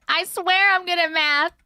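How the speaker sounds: swearing it through a laugh. Real, not acted. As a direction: laugh while protesting. Laughing while insisting.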